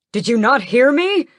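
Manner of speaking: high, loud furious demand; angry cry. Acted. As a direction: shout at the guards in outrage. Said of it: "Raoul cries out".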